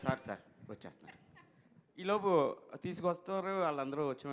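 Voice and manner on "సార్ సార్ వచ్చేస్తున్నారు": soft, low, hurried reply; placating assistant. Retold or imitated. Assistant assures the angry director they are coming, placating. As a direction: mimic a junior pleading for a moment.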